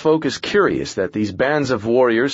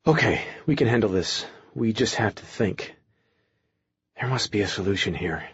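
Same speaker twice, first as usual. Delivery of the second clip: quick anxious ramble, trailing softer; rambling nervously; 4 dB quieter than usual. Acted. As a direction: rush to reassure, losing calm. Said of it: "Eric rambled, trying desperately ... to stay calm".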